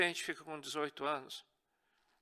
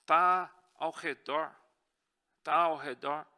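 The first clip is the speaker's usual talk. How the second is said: preached warning; 8 dB louder, slower than usual. Real, not acted. Preacher warns of the devil.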